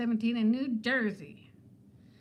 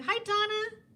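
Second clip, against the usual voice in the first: imitating a fan; 8 semitones higher than usual. And she says.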